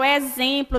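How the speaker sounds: "exemplo" with the x said as a clear z, ezemplo; teacher stresses the z sound in "exemplo". Shown as a demonstration. Teacher shows students "exemplo" sounds with z. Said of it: "dá a entender que eu tô falando com Z".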